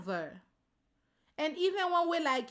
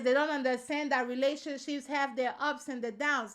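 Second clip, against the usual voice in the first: put-on a slightly preachy older woman's voice; mock preachy older woman. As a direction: lecture as if you know best, lightly mocked. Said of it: "women like".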